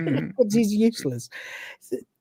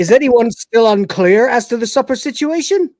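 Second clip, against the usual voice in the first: smug Crichton; 3 semitones higher, 5 dB louder than usual. Retold or imitated. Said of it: "Crichton says".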